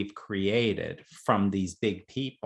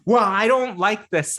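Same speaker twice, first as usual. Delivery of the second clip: sulky player; 8 semitones higher, 7 dB louder than usual. Retold or imitated.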